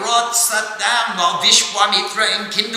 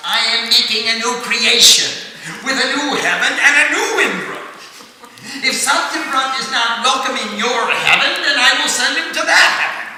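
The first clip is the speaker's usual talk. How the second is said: gleeful threat; 3 semitones higher than usual. Acted. Vishwamitra taunts Indra about a new heaven, laughing.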